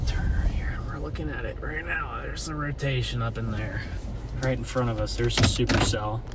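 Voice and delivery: hushed, half-whispered commentary; whispering. Real, not acted. Narrating quietly while filming the storm.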